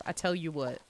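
understated Southern twang, falling at the end; light Southern accent; Southern drawl. Shown as a demonstration. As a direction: say it as a mild Southern saying. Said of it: "it does come out when I say".

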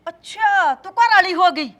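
scornful taunt. Acted. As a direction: taunt her with contempt. Mother-in-law mocking daughter-in-law. (ਸੱਸ ਦਾ ਉੱਚੀ ਤਾਅਨਾ)

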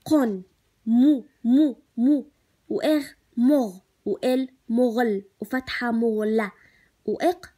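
loud, slow sounding out of مغلق piece by piece; syllable-by-syllable reading. Shown as a demonstration. Teacher sounding out a word for first graders, loud and slow. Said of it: "عندي كلمة".

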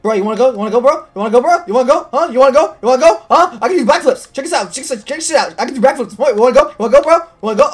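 loud, high mock challenge; fake tough guy swagger. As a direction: taunt like a street tough. Taunting the crab.

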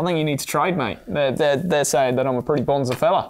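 light mock Aussie slang, bonza and struth; a hint of an Aussie bloke laughing through it; mock Australian trader talking a player round. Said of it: "Should I do Crocodile Dundee?".

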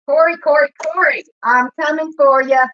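loud, drawn-out challenge; taunting callout. Real, not acted. Vlogger calls out an online rival, loud and taunting. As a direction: call them out by name, loud and slow.

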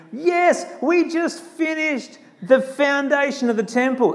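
high-pitched jubilant cry, not truly screamed; mock cheering. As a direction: imitate young fans cheering. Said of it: "you know, just screaming".

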